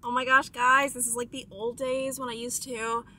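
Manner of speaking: talking while applying lipstick; while putting on lipstick. Real, not acted. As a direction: speak through lipstick application. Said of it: "I try to talk and do lipstick at the same time".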